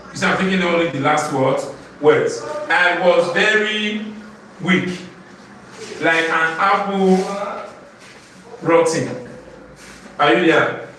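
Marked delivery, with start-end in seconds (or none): 2.7-9.1 slow, spaced-out poem reading; measured classroom recitation. Shown as a demonstration. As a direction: recite line by line, pausing before the rhyme word.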